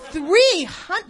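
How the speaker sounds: loud, high incredulous laugh through the words; laughing disbelief. Retold or imitated. Laughing disbelief at priest's answer.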